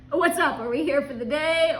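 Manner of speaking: brighter upbeat greeting. Retold or imitated. Husband greets the worker, perky and upbeat. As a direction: chirp it out like a cheery tourist.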